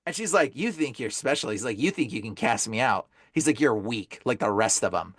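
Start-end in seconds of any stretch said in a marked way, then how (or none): 0.6-1.5 low, soft demon taunt. Retold or imitated. Demon taunts exorcist in church, low and soft. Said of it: "the demon goes". 1.8-3.1 low demon voice. Retold or imitated. Demon dares exorcist to cast him out, low taunt. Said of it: "the demon goes". 3.6-5.1 deep, contemptuous demon voice. Retold or imitated. Demon belittles exorcist in his head, low contempt. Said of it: "He starts talking to me in my head".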